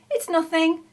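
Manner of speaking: high, loud, pleased modesty; beaming pleasure. A narrator's reading. Sam replies to praise of the buns, beaming. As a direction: wave off praise with a beam. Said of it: "beamed Sam".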